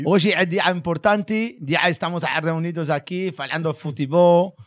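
slow, grand opening-address delivery, half joking; mock solemn speech. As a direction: announce it like a pompous ceremony host, very slowly. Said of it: "ele tá dando uma aula pra gente".

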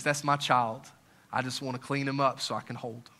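low, soft, understated tenderness; tender fatherly. Acted. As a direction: speak gently, as a loving father would. Voicing God's tender look at child.

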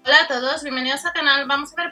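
loud, bright channel welcome. Real, not acted. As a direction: boom out the hello to viewers. Channel opener greeting viewers.

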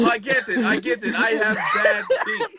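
high, hammed-up British voice; mock British accent. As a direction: put on a silly British accent, slowing at the end. Joining the mock British bit.

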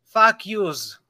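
slow attempt at a New York accent; put-on New York accent; New Yorker accent. Shown as a demonstration. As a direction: try out a New Yorker, drawing it out. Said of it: "so New Yorker accent".

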